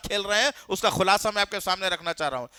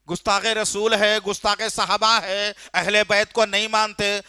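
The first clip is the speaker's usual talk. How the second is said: mocking the accusers; 4 dB louder, slower than usual.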